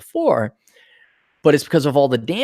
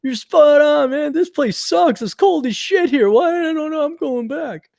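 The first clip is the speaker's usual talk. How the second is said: laid-back waiter voice; 12 semitones higher than usual. Retold or imitated. Quoting Red Lobster waiter.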